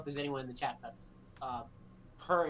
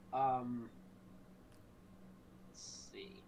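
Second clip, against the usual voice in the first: whispered to self; 5 semitones lower, 9 dB quieter, much slower than usual. Real, not acted. Thinking aloud while choosing a joke.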